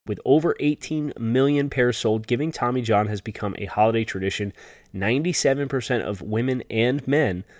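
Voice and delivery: upbeat sponsor read; holiday sale ad. Acted. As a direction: read it like a radio ad. Host reads sponsor ad.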